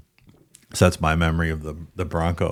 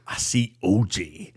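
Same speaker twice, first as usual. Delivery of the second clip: imitated Jamaican prank caller; Jamaican accent; 3 dB quieter, slower than usual. Prank caller reporting to the news anchor, Jamaican accent. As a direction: put on a comic Jamaican accent. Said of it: "in this Jamaican accent".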